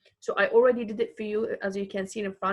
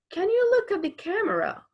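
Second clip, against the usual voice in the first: calling out; 10 semitones higher than usual. Acted. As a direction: call it out to the child. Acted command vs reported.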